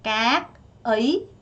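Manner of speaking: các ấy said very slowly; drawn-out các ấy; slow model word. Shown as a demonstration. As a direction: stretch both syllables of các ấy. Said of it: "slow model of new word".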